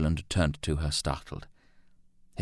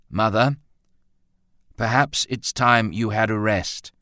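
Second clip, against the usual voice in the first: even, almost severe; 4 semitones higher, 4 dB louder than usual. A narrator's reading. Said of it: "He spoke evenly, almost severely".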